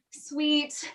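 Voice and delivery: breathy coaxing whisper. Acted. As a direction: whisper it sweetly. Juliet coaxes the nurse.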